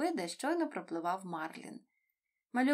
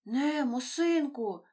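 overjoyed reply; 5 semitones higher, 6 dB louder, slower than usual. A narrator's reading. Marlin finds his son.

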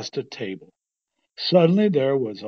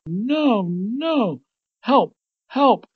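high, loud cries for help; shouted plea; 9 semitones higher, 5 dB louder, much slower than usual. A narrator's reading. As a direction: call out in storybook alarm. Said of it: "shouted Bugs".

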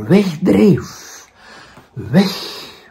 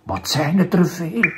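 sighed; 5 dB quieter than usual. Acted. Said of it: "zuchtte hij".

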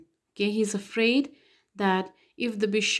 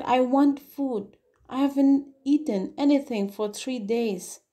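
retold angry demand; 4 semitones higher, 3 dB louder than usual. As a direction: repeat the convict's demand with force. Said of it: "He said".

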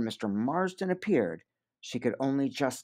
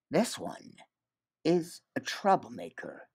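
evenly; 4 semitones higher, 4 dB quieter than usual. Acted. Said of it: "he said evenly".

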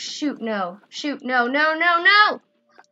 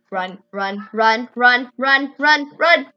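being chased; 2 semitones lower, 4 dB louder, slower than usual. Real, not acted. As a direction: chant of run building louder. Fleeing the boss.

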